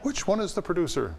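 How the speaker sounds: retold stern demand; imitating a stern Dorothy. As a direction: hunt down the culprit.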